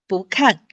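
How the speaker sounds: 不看 with 不 rising, 看 falling; bú kàn demo. Shown as a demonstration. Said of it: "看四声".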